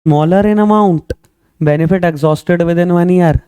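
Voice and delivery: very slow, word-by-word definition; slow dictation. Shown as a demonstration. Teacher dictating the definition slowly to students. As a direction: spell it out slowly for notes.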